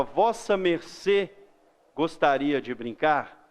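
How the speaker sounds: slow, stiff and polite; formal to a stranger. Shown as a demonstration. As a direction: invite a stranger very properly. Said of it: "ele falava". (convite formal e cerimonioso)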